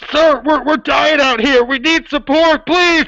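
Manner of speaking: high, desperate dying soldier; wounded soldier gasping. Acted. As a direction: plead for help from the front. Soldier pleading from the front.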